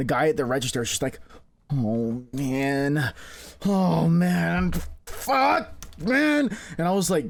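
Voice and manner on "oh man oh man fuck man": mock panicked heavy breathing. Retelling what the register worker said: imitating panicked heavy breathing. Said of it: "shaking, panicking, like, breathing really heavily".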